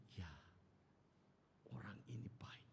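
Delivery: soft, near-whispered remark; hushed realisation. Acted. Onlookers quietly decide about the neighbour, hushed.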